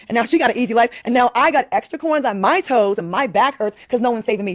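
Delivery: indignant, half-joking why-not-me rant; bitter complaint. Acted. Guest imagines seeing another woman rescued, bitter complaint. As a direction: complain as if passed over. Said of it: "I would have been a little bitter".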